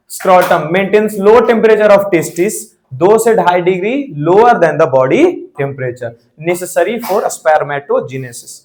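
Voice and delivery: very slow, word-by-word dictation for note-taking. Acted. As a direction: spell out the notes slowly so students can write. (धीरे-धीरे notes लिखवाना)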